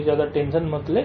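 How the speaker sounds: low, soft and unhurried; calm reassurance. Retold or imitated. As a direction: settle him down gently.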